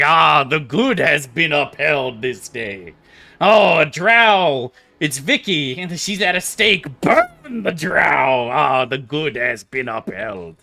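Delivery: slow, self-righteous paladin proclaiming; hammed-up holy knight, savoring every word; pompous Keldorn. Streamer mocks Keldorn's smug paladin boasting, slow and pompous. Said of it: "And Keldorn's like".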